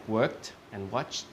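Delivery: "worked" and "watched" ending in a T sound; one syllable each for "worked" and "watched", slow. Shown as a demonstration. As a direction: slowly demonstrate "worked" and "watched" as "werkt", "wotcht". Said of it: "one sounds like a T".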